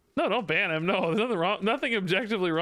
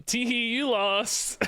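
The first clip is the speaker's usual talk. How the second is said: mock giggly taunt; 6 semitones higher, much slower than usual. Mocking chatter's tee hee.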